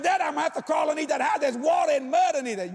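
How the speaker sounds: shouted from under the house; yelling to dad. Retold or imitated. Son yelling up to dad about the mud.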